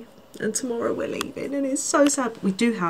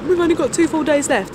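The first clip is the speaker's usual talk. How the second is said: mock dismay; 8 semitones higher, 5 dB louder than usual. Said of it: "I woke up yesterday and I was like".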